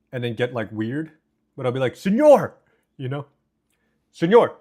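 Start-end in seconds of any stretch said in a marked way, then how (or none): 1.9-2.5 loud Spanish-accented call. Shown as a demonstration. Streamer demos calling the elote man from his balcony, loud Spanish-accented shout. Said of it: "I do try to do the accent". 4.1-4.6 "Señor!" shouted high with a Spanish accent; loud Spanish-accented call. Shown as a demonstration. Streamer shows chat how he hails the corn seller, loud Spanish-accented call. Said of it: "I do try to do the accent".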